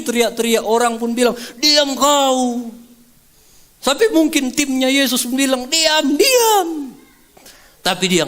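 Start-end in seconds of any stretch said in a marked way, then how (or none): 1.6-2.7 crowd hushing. Acted. People hushing beggar. 5.7-6.7 hushing. Acted. Jesus' team hushing.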